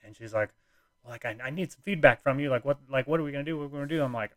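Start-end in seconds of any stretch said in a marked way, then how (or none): 1.0-4.0 higher-pitched, mildly exasperated imitation; lightly mimicked annoyance, voice pitched up; retold exasperation. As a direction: imitate a partner pressing for an answer. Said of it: "she just pissed her off".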